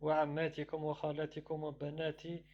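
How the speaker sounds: fast rapid reading of the Arabic verse; rushed scripture reading; Quran recitation. Acted. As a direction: rattle through the recitation quickly.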